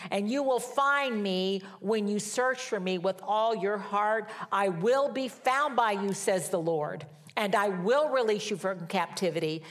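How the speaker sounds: preacher proclaiming a promise, key words leaned on; emphatic scripture reading. Acted. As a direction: read it out as God's firm promise, with weighty stresses. Reads scripture emphatically to congregation.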